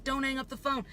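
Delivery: mock dispatcher voice. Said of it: "they'd always tell you".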